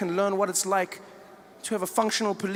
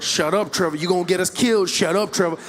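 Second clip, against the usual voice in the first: urgent low pleading, out of the side of the mouth; scared friend; 4 semitones lower, 4 dB louder than usual. Retold or imitated. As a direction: beg him to stop talking before it's too late. Scared friend hissing at Trevor.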